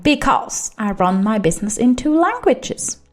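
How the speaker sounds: ordinary talk, nothing marked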